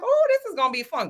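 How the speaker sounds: high-pitched gleeful anticipation; eager anticipation. Retold or imitated. Recalling the new episodes arriving, eagerly excited. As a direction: act out getting your hopes up.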